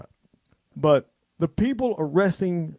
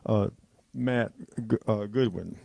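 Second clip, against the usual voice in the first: emotional; 3 semitones lower than usual. Real, not acted. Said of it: "I'm, I'm getting emotional".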